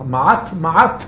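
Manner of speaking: מעט with a clearly struck final T; deliberate tongue hit on the T in מעט; deliberate struck tet. Shown as a demonstration. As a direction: release the T ending מעט off the palate. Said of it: "אני בכוונה נותן לך".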